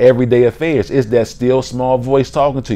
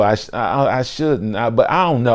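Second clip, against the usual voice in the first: softer, stammering self-doubt; hesitant; 5 dB quieter than usual. Acted. Girl weighing whether to go over, softly hesitant. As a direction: mumble through your indecision. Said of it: "you be like".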